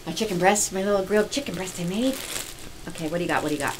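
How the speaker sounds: eating while talking; mouth full. Real, not acted. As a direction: talk through a mouthful. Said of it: "talk with your mouth full".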